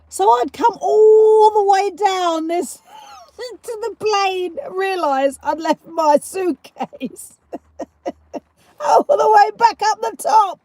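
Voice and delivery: high-pitched, breaking into laughter; cracking up mid-story; laughing while talking. Real, not acted. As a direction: tell it through real laughter. Laughing at her forgotten suitcase.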